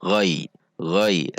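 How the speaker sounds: "ghai" as short "ghoy", falling; o-y glide. Shown as a demonstration. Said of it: "o sama y". ("ghai" seperti o dan y)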